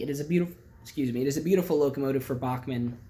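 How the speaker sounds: talking through hiccups; hiccuping between words. Real, not acted. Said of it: "I don't know why I'm hiccuping".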